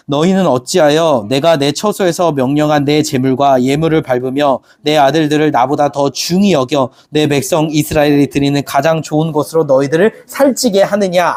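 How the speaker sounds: steady, measured scripture read-aloud. Acted. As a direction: read the verse together, evenly. Congregation reads scripture aloud.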